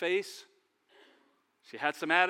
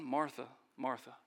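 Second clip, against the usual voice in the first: gentle; 6 semitones lower, 7 dB quieter than usual. Acted. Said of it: "Jesus was very gentle".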